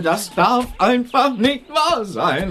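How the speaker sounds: worked-up driver, mildly distraught; very agitated. Acted. Upset driver laments to strangers beside his broken transporter, agitated. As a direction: fret in disbelief, agitation rising. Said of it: "Der ist ganz aufgeregt".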